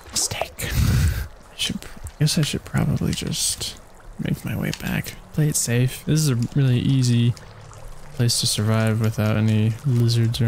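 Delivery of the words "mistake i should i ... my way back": whispered aside. Real, not acted. Muttered aside after mistake.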